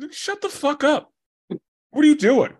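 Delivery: high, rough, pushy comeback; hostile retort. Retold or imitated. The Kryptonian couple rounding on Clark in a high, mock-hostile voice. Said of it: "And they were like".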